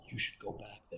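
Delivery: very soft, voiceless mutter; muttered under breath. Retold or imitated. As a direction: mutter it so it's barely heard. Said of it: "He mutters under his breath".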